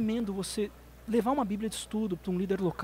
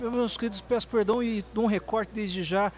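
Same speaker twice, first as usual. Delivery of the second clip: mock formal disclaimer. Real, not acted. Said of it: "vou falar pra câmera agora".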